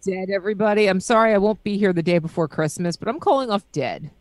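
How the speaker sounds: a hint of valley girl, calling off work; mock valley girl announcing to everybody; lightly done valley girl apology. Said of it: "Why does Dell have such a good valley girl".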